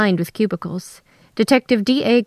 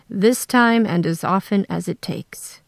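whispering. Acted. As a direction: whisper the promise. Arnold's hushed plea.

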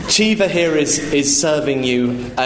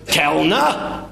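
raised-voice call for the waiter; loud hail; 5 semitones higher than usual. Acted. Father hails the waiter, loud hail. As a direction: hail a waiter across the room. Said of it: "hailed the waiter in a loud voice".

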